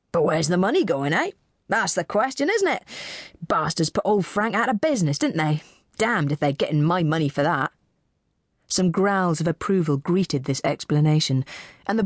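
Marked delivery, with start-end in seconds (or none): 0.1-7.7 a hint of a disgruntled local man; lightly voiced heckler. Broad man sparring with the audience, lightly disgruntled. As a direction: grumble at the auction as a broad local.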